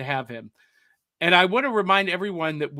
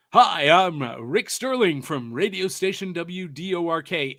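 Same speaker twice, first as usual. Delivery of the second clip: radio DJ; 3 dB louder than usual. Shown as a demonstration. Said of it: "That's my radio D J voice".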